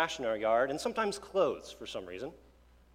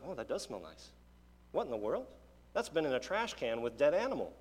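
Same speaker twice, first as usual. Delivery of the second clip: hushed amazement. Retold or imitated. Dad amazed at the smell.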